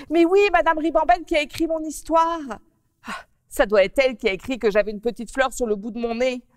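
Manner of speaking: put-on a little girl upset about the flower on her nose. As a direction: petite fille contrariée. Narrator plays Mimi Coquelicot.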